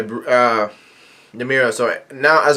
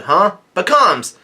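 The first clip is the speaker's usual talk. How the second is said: raised-pitch startled call; higher, restrained exclamation; mock surprised yell; 5 semitones higher, slower than usual. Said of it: "somebody yells out".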